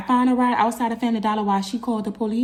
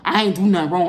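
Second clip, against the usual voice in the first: exasperated, louder protest; upset; 4 dB louder than usual. Retold or imitated. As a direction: protest innocence to the officer, worked up. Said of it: "I'm upset".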